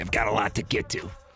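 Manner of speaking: sports-talk delivery with slight East Coast tinge. On ESPN radio, demonstrate how you say your phrase in a changed voice, a little East Coast. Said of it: "I've changed my voice when I say".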